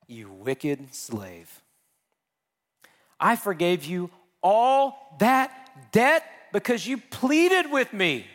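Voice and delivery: slow, rising rebuke from the master; stern master. Acted. Master rebuking the wicked slave, slow and stern. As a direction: scold the servant slowly, building. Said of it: "his master said to him".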